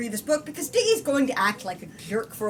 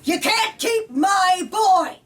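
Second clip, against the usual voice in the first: slow, higher, booming yell into the night; loud drunken shout; 10 semitones higher, 10 dB louder, much slower than usual. Acted. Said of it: "Mister Graff was way too loud".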